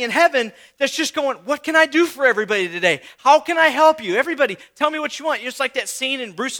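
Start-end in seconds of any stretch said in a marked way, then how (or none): 1.4-5.4 mock eager sugar daddy. God imagined as eager sugar daddy.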